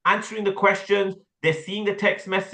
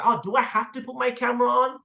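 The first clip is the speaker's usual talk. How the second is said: higher-pitched reluctant whine, dragged at the end; difficult customer; 4 semitones higher than usual. Acted. Coach shows student how to be a difficult customer, reluctant. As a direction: play a customer balking at a request. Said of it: "they're a bit weird".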